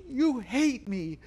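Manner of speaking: high-pitched, hammed-up tearful complaint; mock sobbing. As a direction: imitate a bride wailing her accusations.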